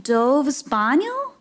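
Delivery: slow, unsure Italian "Dove's Bagno", each syllable tried out; hesitant tourist Italian; tentative Italian. Shown as a demonstration. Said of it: "I still actually don't know how to say".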